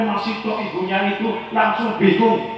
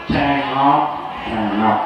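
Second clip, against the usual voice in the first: slow, laughing through the word; 4 semitones lower, much slower than usual. Real, not acted. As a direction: let a laugh carry the word "Cengap-cengap". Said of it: "Bahasa kene apa ini?".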